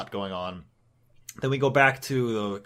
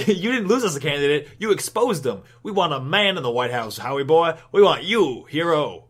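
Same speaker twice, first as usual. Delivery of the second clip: rallying party crowd; 3 semitones higher, 4 dB louder than usual. Acted. Voices party drafting Howard as candidate.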